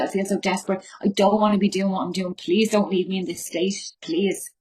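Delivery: reliving a desperate plea to her husband, voice catching; begging him not to go, close to tears; emotional retold begging, partly whispered; desperate pleading. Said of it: "I'm getting emotional even thinking about it".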